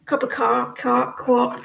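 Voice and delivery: put-on fumbling for a New York accent; Yankee accent attempt. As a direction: try out a Yankee "coffee", stumbling. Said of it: "Yankee accent".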